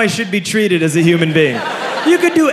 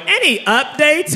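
high, drawn-out hopeful question; mock-timid passenger; timid inquiry; 9 semitones higher, slower than usual. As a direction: ask meekly, stretched and high. Timid passenger asks again.

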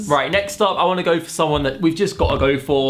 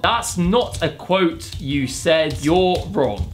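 slow, deliberate rebuttal; typing aloud; much slower than usual. Real, not acted. YouTuber tells AI it's wrong, slow typing voice. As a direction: dictate it slowly as you type.

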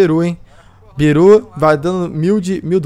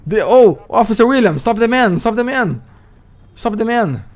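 calling out; 5 semitones higher than usual. Acted. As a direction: call the officer for help. Yelling to officer in English.

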